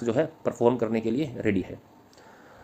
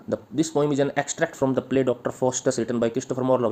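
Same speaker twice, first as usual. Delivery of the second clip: slow, measured read-out of notes; dictation; much slower than usual. Acted. Teacher reading the poem's theme to students, slow dictation. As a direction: read it out slowly for copying.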